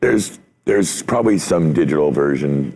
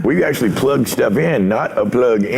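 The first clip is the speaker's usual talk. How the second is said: higher mock cranky old-timer voice; grumpy old-timer; 8 semitones higher than usual. Mocking old analog dudes griping about the old days, higher cranky old-timer. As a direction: whine it like a curmudgeon remembering better days. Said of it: "Those old analog dudes are like".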